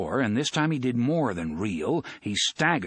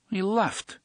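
dull; 10 semitones higher than usual. Acted. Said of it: "Fat Johnny said dully".

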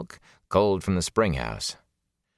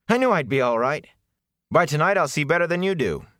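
high-pitched, excited boasting; elated; 9 semitones higher than usual. A narrator's reading. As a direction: crow it happily, pitched well up. Matt elated at regained sight.

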